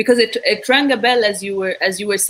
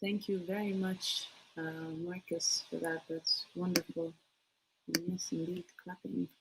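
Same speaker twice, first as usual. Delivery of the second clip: very faint and far from the mic; too quiet to make out; barely audible; 19 dB quieter than usual. Real, not acted. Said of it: "Your voice is very low".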